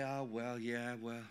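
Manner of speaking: low, soft mock grumble; understated woe-is-me groan; imitating moaning. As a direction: mimic a half-hearted complainer, low and quiet. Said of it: "begins to moan and groan and criticize".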